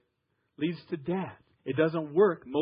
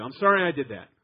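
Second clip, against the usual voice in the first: grudging apology; 2 semitones lower, 5 dB louder than usual. Shown as a demonstration. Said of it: "basically you're saying get over it".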